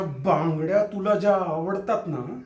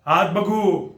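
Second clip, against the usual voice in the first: repeated louder and firmer; sharp demand; 5 dB louder, much slower than usual. Acted. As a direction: snap the order now. Husband demands to see hands.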